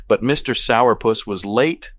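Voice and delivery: slow, loud pouty complaint; pouting. A narrator's reading. Evelyn accusing Patrick with mistletoe, pouting. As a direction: drag out the accusation with a pout. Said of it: "she pouts".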